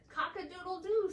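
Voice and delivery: quick high cock-a-doodle-doo; rooster crow. Acted. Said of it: "said the cat".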